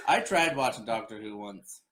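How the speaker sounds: emphasis on "tried", then drop off; stress on tried. Real, not acted. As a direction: lean hard on "tried". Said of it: "Emphasis on tried".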